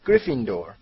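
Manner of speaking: loud, ringing announcement; storyteller's shout; shouted verdict. A narrator's reading. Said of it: "کلاه فریاد زد".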